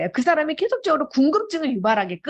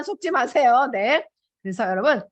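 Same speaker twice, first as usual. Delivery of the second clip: normal talking voice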